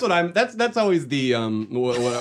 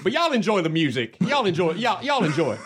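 mock Southern accent. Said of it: "don't know where that accent is from".

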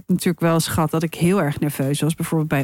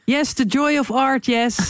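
hammed-up higher English gushing; mock art lover; 4 semitones higher than usual. Joking about English panels, mock art lover. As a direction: play at being moved by art.

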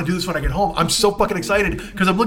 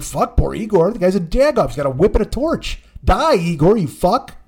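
mock angry rant. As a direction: tell Igor off.

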